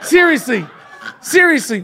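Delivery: chuckling seriously; laughing. Real, not acted. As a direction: laugh through the word. Laughing teasing repetition.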